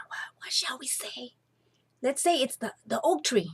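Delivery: hurried conspiratorial whisper. A narrator's reading. Two sisters whisper a lie to each other, hushed. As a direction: hush it, scheming together. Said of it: "they whispered".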